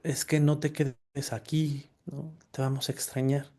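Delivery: soft, slow, lightly voiced tearful plea; crying little brother. Little brother hugging him at the seminary, softly tearful. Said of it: "lloraba y lloraba y me decía".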